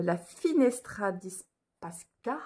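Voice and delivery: slow attempt at an Italian accent; self-mocked Italian accent. Real, not acted. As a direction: read the Italian name slowly with a French speaker's accent. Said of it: "avec mon bel accent". (accent italien approximatif)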